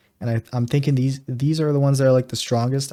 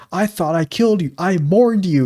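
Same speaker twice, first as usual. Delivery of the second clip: Trevor impression; 5 semitones higher than usual. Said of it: "the GTA five Trevor dialogue".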